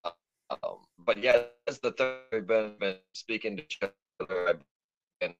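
choppy robotic voice breaking up; glitchy digital distortion on the line. Real, not acted. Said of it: "you were sounding pretty robotic".

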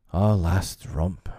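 slow, drawn-out lament; understated mournful recollection; groaning. Acted. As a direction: groan it out slowly. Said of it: "Mister Darling groaned".

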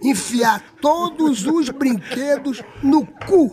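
dramatic climax. Retold or imitated. He tells Xuxa of Marlene's order, slow dramatic climax. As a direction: stretch the punchline in mock horror.

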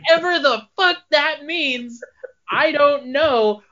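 high, slow words through laughter; can barely get it out for laughing. Real, not acted. Cracking up over absurd quote.

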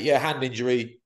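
talking through a coughing fit. Real, not acted. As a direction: voice hit by a cough, chesty. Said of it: "I'm sorry I'm coughing so much".

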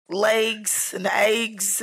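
slow "legs and eggs" with long Northern vowels; mimicking Northern "legs and eggs"; Northern pronunciation. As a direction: draw out "legs and eggs" as "laygs and aygs". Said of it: "Northerners say weird shit like that".

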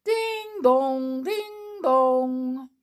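high, ringing ding dong like a chiming clock; clock chime. Acted. Clockwork mouse chiming the hour for his friends. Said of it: "he went".

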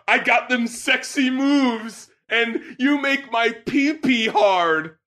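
slow, drawn-out mock rap delivery; mock rapper. Reviewer quoting a crude lyric, slow mock delivery. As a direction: croon it mockingly. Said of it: "what does he say".

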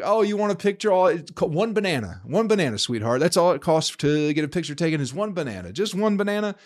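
high, mocking elephant bargaining for a banana; hammed-up elephant haggling with the tourist. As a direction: voice the elephant as a smug dealer. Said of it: "The elephant's like".

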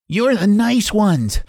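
high, slow, huffy reproach; mildly puffed, indignant complaint; panting. A narrator's reading. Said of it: "panted the cabbages".

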